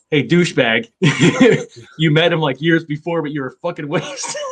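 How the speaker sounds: teasing while laughing through it; laughing tease. Retold or imitated. Bass player ribbing him, laughing as he says it. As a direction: laugh out the friend's jab.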